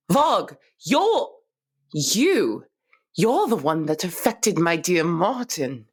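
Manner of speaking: gasp, then voice jumps up in shock; shocked realization. Acted. Realizes he hurt her partner.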